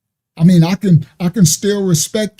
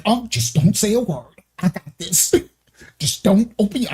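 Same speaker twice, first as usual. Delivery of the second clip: white brother voice. Retold or imitated. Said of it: "a white brother be like".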